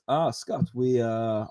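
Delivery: put-on half-hearted Italian accent; a hint of Italian, quickly abandoned; attempted Italian accent. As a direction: lightly imitate an Italian boss, haltingly. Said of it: "I can't do an Italian accent".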